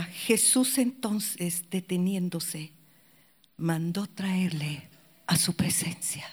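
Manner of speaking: slow, soft, awed reread of the verse; hushed reading. Shown as a demonstration. Preacher rereading Luke to the congregation, slow hushed awe. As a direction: let the moment sink in, softly. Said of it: "dice en el versículo cuarenta".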